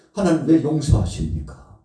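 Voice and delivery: 용서하십니까 cried out loud, stress on 왜; loud protest. Acted. Jonah demanding of God, loud indignant cry. Repeated question, two takes.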